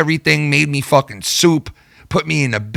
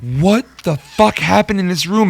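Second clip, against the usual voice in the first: higher, slowed mock outrage; shocked girlfriend; 6 semitones higher than usual. Girlfriend finds the trashed room, mock shocked and slow. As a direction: play the girlfriend walking into the mess. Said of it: "she's like".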